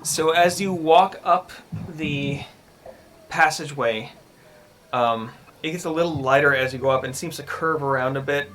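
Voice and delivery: measured storytelling narration; game master's scene setting. Acted. Game master describes a creepy passageway to the players, measured narration. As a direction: describe the scene evenly, pausing between phrases.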